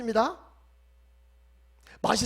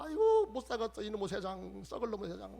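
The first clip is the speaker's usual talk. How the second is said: mock complaining neighbour; 7 dB quieter than usual. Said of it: "속상한 얘기는 막 퍼붓는 거야".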